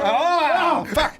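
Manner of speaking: high startled cry; surprised yelp. Real, not acted. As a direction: yelp in sudden shock. Game shock.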